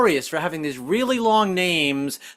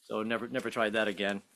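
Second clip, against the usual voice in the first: soft unvoiced whisper; whispered aside; 7 semitones lower, 11 dB quieter than usual. Real, not acted. Comic confiding to the audience in a whisper. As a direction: whisper it to the crowd.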